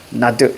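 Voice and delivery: 나드 with the coda turned into a d; sound-change demo. Shown as a demonstration. Teacher shows ㅈ changed to ㄷ, pronunciation demo of 나드. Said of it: "이렇게 바꿔주고".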